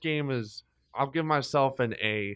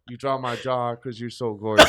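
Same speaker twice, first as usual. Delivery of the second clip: laughing pickup line; 3 semitones lower, 5 dB louder than usual. Retold or imitated. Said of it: "I'd be like".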